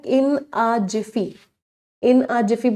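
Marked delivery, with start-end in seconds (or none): 0.0-1.3 very slow and deliberate, each word spaced out; slow, clear idiom. Shown as a demonstration. Teacher presenting a new idiom to students, slow and deliberate. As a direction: spell it out slowly for the class to write. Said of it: "एक बड़ा प्यारा idiom होता है".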